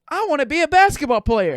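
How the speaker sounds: a hint of an eager little kid. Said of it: "And the kid's like".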